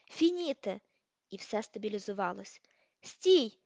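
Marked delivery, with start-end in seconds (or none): 0.1-0.8 shouted spell. A narrator's reading. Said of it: "крикнув". 3.0-3.6 loud, sharp, higher stop; shout. A narrator's reading. Malfoy stopping Crabbe's spell, a loud shout. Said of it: "крикнув Мелфой".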